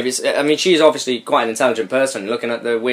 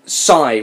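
read sigh. Shown as a demonstration. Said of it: "Can you do that?".

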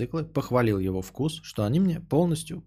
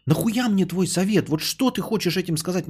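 usual speaking voice

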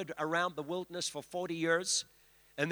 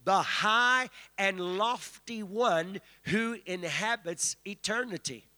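slow, lofty reading of scripture; solemn Bible recitation; slower than usual. Shown as a demonstration. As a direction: intone the verse with solemn weight. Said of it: "It says".

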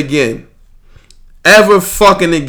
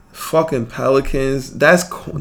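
usual speaking voice

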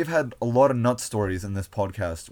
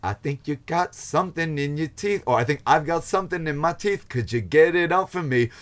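A comedic rock singer impression; 6 semitones higher, 6 dB louder than usual. Acted. Performing a favourite comedy rock bit for friends, hammed-up and building. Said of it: "That's a decent impression as well".

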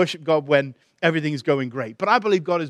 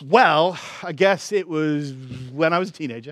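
halting, reluctant start with hesitations; flustered. Retold or imitated. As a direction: imitate a thrown man stalling for words. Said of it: "he was frustrated and kind of readjusted".

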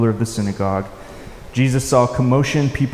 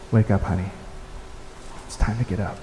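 put-on softer, gentle coaxing as if waking a sleeping child; a parent's soft murmur at the bedside; 3 semitones lower, 7 dB quieter, faster than usual. Shown as a demonstration. Parent gently waking a child in the morning, soft and tender. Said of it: "Softly, gently".

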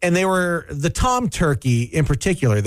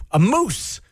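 moose impression; 5 semitones higher than usual. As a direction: imitate a moose charging closer. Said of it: "Is that your impression of a moose?".

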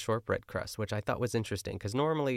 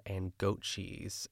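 drawn-out goat cheese; 5 dB quieter, much slower than usual. Retold or imitated. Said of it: "after she says goat che-, uh, goat cheese".

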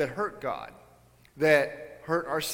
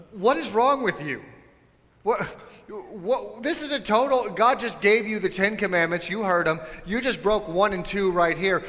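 higher, exasperated disbelief at Aaron; exasperated scolding; 4 semitones higher than usual. Pretend. Preacher scolding Aaron for the golden calf, exasperated. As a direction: scold him like he's lost his mind.

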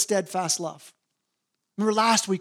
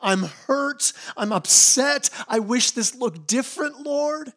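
lament; 4 semitones higher, slower than usual. Retold or imitated. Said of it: "godly people who are saying".

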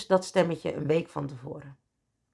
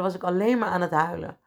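ordinary delivery

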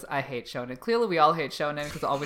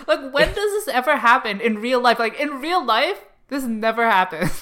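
frustrated rant; 6 semitones higher, 4 dB louder than usual. Real, not acted. Ranting about the trope.

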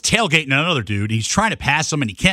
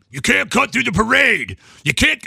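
high, slow mock officious voice; imitating parade lady; 8 semitones higher, slower than usual. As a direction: block him like a fussy official. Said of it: "She's like".

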